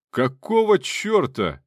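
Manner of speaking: slow, high, loud yell from afar; angry shout. A narrator's reading. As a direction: bellow out in outrage. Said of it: "раздался крик Серёги Карпова".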